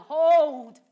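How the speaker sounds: sudden loud, high cry; shout. Acted. Lady Macbeth crying out at the speech's climax, loud cry. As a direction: ring it out in alarm.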